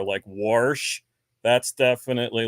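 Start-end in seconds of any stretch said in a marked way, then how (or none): 0.3-1.0 "warsh" with an R before the sh; relative's South Jersey "warsh"; added R. Retold or imitated. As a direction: say wash as "warsh". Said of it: "He definitely says some things similar".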